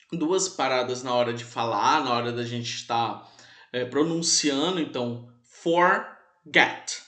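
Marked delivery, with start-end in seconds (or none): 5.4-7.0 forget broken into two separate beats; two-syllable demonstration. Shown as a demonstration. Teacher showing students the two syllables, forget split in two. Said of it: "A boca abre duas vezes, são duas sílabas".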